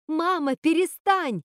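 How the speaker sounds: high, slow anguished cry; восклицание. Acted. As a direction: plead loudly for her to stop. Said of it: "воскликнула Готель". (Готель громко и медленно умоляет мать)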